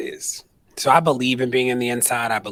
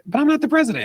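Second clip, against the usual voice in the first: sharp retort; 6 dB louder, faster than usual. Retold or imitated. Retorting to the president.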